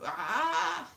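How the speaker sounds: drawn-out, muted "aah"; mock neighbour cry. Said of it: "they'll go".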